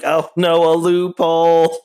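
high, alarmed "oh no"; mock dismay. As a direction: feign sudden panic. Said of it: "And it's like".

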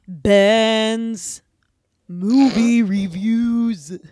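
slow hushed whisper for the title; whispered segment title. Acted. Host introducing the movie review segment in a slow whisper. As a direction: breathe the segment name out slowly.

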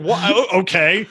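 mock indignant rant. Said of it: "And I was like".

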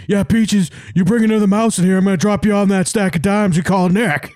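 high, hyped mock threat to a cat; wrestler trash talk. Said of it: "talking shit like it's The Rock in ninety-nine".

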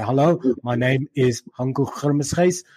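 flat monotone Afrikaans accent, slow; a light Afrikaans monotone demo. Shown as a demonstration. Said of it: "it's very monotone".

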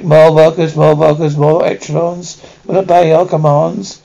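grating robotic Dalek shout; harsh barking commands. Acted. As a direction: bark the order mechanically. Dalek demanding more workers.

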